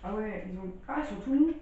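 chewing while talking; talking between bites of cookie; mouth full. Real, not acted. Seen 0: Left man bites and chews a dark cookie while speaking.

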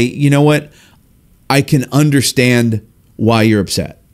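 slow, measured understanding; empathetic. Shown as a demonstration. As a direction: take your time to acknowledge their feelings. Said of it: "when we're empathetic, we say".

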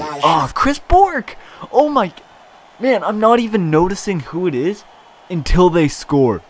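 high, loud, overjoyed shouting; ecstatic yelling. Real, not acted. Streamer cheering the goal scorer to his chat, yelling in real joy. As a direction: scream with delight at another goal. Same player scores again.

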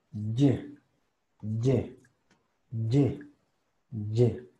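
"Y" as a short "yeh" sound, not its name. Shown as a demonstration. Teacher isolating the phoneme, "Y" as a short "yeh". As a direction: sound out "Y" as one short syllable. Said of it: "el sonido de la Y".

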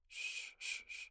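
soft unvoiced shushing. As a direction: hush a scared sleeper. Hushing a frightened sleeper.

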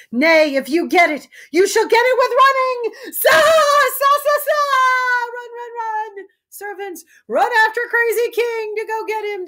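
very high, loud hunting cry; a mad king whooping as he runs off; wild shout. Acted.

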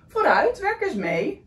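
urgent urging. Acted. Snail urges the stranded whale to help, pushing. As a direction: shove him on with your voice.

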